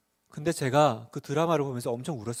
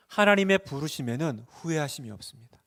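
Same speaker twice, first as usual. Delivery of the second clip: ordinary talk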